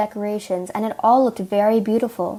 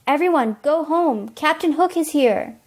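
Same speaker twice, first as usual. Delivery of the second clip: raised-pitch call to a crowd; urgent warning; 5 semitones higher than usual. Acted. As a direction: warn everyone with mild alarm. Peter warns crowd that Hook arrives.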